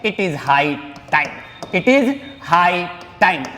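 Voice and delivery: very slow, deliberate phrase; teacher spacing each word for students; slow dictation. Shown as a demonstration. Teacher introducing a phrase, very slow. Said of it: "एक option हमारे पास और है".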